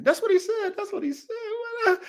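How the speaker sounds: high, squeaky laughing repeat. Real, not acted. Laughing after retelling the friend's plea, high and breaking. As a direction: crack up while repeating it.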